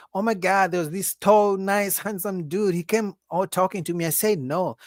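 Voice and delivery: lightly voiced woman boasting to friends; bragging woman. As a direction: mimic her telling her friends. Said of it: "she's gonna go to her friends".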